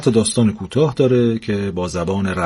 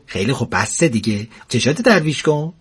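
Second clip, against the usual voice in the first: jealous wife snapping; 3 semitones higher than usual. Acted. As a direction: cut him off jealously.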